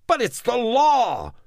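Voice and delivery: very high, loud angry yell; enraged yell at Neville; furious shout. Acted. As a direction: shout it back in sudden fury. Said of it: "the man shouted back, suddenly furious".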